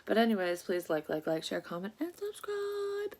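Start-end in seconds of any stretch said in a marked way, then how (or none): 2.0-3.2 sing-song high. Real, not acted. Sing-song subscribe call.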